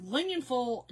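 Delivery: "Lumenful" tossed off as one word; fast casual Southern. Shown as a demonstration. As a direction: say "Lumenful" without separating aluminum from foil. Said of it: "Like, you do it fast".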